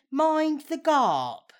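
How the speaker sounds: slow "Mind the Garp", with an R; imitating Garp. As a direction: mimic his "Garp", drawn out. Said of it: "You said".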